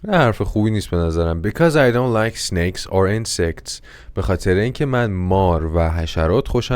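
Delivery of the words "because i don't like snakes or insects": slow repeat. Shown as a demonstration.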